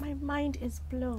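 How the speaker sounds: slow high-pitched disbelief; amazed. Real, not acted. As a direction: draw it out softly, stunned. Host reacts, amazed, drawn out.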